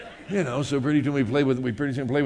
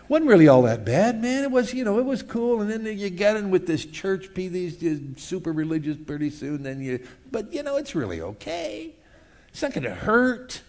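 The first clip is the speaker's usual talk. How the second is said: high, wheedling coax; coaxing tempter; 5 semitones higher than usual. Acted. Preacher voicing the flesh luring a Christian, high coaxing. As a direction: sweet-talk them back toward the old life.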